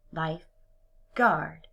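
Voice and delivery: slow, "lifeguard" as two words; split slowly. Shown as a demonstration. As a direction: pull "lifeguard" apart slowly. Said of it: "break it apart into two separate words".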